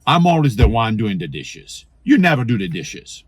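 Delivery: "You never do the dishes" with never stressed, accusing; complaining. Shown as a demonstration. Spouse complaining about the dishes, accusing. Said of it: "Do you hear the difference?".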